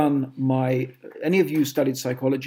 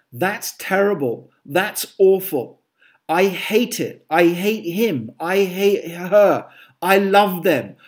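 dramatic exaggeration; 3 semitones higher, 5 dB louder than usual. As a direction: ham up every extreme phrase. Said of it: "I'm being dramatic now".

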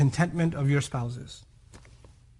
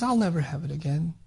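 gently and lovingly; 5 dB quieter than usual. Retold or imitated. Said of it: "very gently and very lovingly".

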